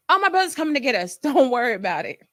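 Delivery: a light imitation of a carefree friend; breezy friend. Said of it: "So I asked her".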